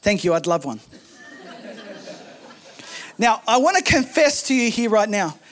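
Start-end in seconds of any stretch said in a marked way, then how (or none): 0.0-0.8 dry, unimpressed wife asking for tea; deadpan. Retold or imitated. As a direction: say it flat and dry, as if expecting the tea. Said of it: "in a deadpan voice".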